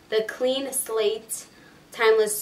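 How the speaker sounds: "Clean Slate" slowed right down; slow, careful restatement. Real, not acted. Vlogger correcting the primer's name for viewers, slow and careful. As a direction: say "Clean Slate" slowly, word by word.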